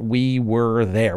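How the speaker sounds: slow, weighted "we were there"; emphatic statement. Shown as a demonstration. Preacher restating the eyewitness claim, slow and emphatic. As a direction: stretch out "we" and "there" deliberately. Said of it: "that emphatic statement about".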